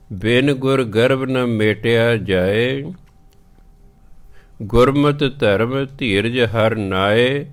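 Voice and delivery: slow measured reading of gurbani; scripture recitation. Acted. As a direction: recite it slowly and clearly. Recites full verse. (ਹੌਲੀ ਪਾਠ ਵਾਲੀ ਆਵਾਜ਼)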